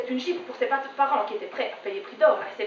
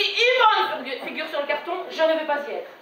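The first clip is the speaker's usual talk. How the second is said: lightly voiced indignant mother; a touch of maternal ultimatum; mother's refusal. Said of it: "Elle me dit". (mère qui refuse, légèrement jouée)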